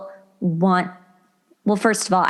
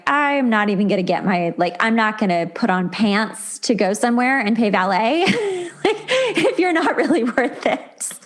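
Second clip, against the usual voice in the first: laughing through it; 3 semitones higher than usual. Real, not acted. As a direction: let the laughter spill into the joke. Joking about skipping bad dates.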